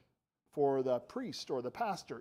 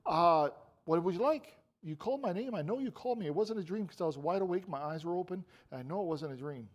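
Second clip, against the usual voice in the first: put-on insistent young Samuel; 2 semitones higher than usual. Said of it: "and he said".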